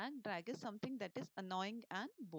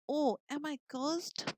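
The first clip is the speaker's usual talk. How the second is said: loud, slow, higher cry of dismay; upset elf; 5 semitones higher, 8 dB louder, slower than usual. Acted. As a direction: wail it out as the frustrated elf. Teacher voices upset elf.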